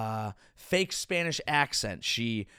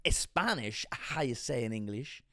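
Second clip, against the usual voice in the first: softly tossed-off fake Spanish accent; mock Spanish accent; 5 semitones lower, 5 dB quieter than usual. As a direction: imitate a put-on Spanish accent. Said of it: "she's bad at speaking".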